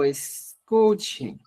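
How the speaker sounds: escuchen stretched out slowly; teacher calling the class to listen; slow call for attention. Real, not acted. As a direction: draw out escuchen to get them listening. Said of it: "Ojo, ojo".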